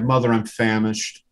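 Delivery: well-spoken kid getting desperate, mildly played. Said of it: "sounds a little bit more desperate now".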